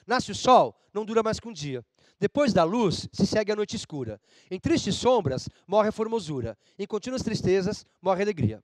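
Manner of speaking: measured, declaimed reading; poem recitation. Shown as a demonstration. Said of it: "Esse é um poema do Gregório de Matos". (recitação pausada de poema)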